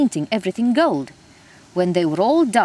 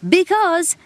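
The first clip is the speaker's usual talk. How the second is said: yelled; 11 semitones higher, 5 dB louder than usual. Acted. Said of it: "yelled the gnome".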